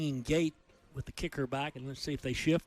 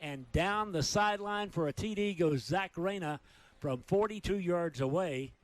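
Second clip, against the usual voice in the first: touchdown call; 3 semitones higher than usual. Real, not acted. Announcer calling the touchdown to radio listeners, excited. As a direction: ride the run into the end zone.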